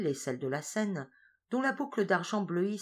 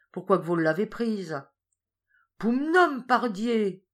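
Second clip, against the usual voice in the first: louder, much higher mock exclamation; rustic exchange; 5 semitones higher, 7 dB louder than usual. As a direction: blurt the oath out. Question and exclamation.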